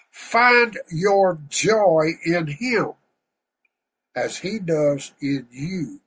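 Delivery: slow, deliberate reading aloud; devotional reading. Acted. Preacher reading a devotional slowly to the congregation. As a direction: savour each phrase like scripture.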